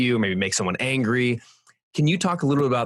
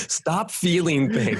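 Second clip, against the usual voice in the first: slow, higher, laughing through a mock command; mock blunt order; 6 semitones higher, slower than usual. Husband imagining ordering his wife, laughing mock command. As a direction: drag it out as a joke order you'd never give. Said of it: "I'm just imagining telling my wife".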